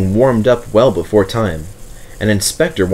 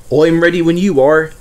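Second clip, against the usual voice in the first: puffing; 7 semitones higher, 4 dB louder than usual. A narrator's reading. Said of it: "puffed Duck".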